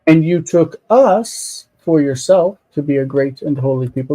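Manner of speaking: US held and lifted, then reading on evenly; stress on US. Shown as a demonstration. Teacher reading the translation, stress on US. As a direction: lean on US mid-phrase. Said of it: "This is the emphasis".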